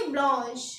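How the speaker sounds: French pronunciation of ब्लॉन्श; French blanche. Shown as a demonstration. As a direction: say ब्लॉन्श as blonsh. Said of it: "white को हम बोलेंगे".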